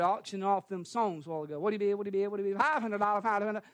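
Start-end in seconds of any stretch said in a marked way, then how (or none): 1.6-3.6 quick auctioneer bid chant. Retold or imitated. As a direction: rattle off bids like an auctioneer. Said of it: "I sound like an auctioneer".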